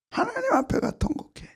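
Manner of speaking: hushed unvoiced urging; whisper. Real, not acted. Preacher urging the congregation in a sudden whisper. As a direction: lean in and whisper it.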